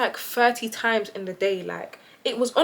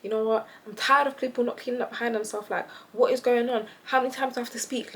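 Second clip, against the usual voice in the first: retold rant; 4 dB quieter, faster than usual. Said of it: "in the bathroom cussing".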